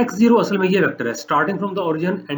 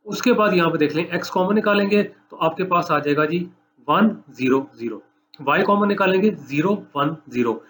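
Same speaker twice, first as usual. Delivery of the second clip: measured dictation with pauses between items; slow dictation. Shown as a demonstration. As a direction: dictate it slowly for students writing it down. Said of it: "मैं slow बोलता हूँ". (धीरे-धीरे लिखवाते हुए)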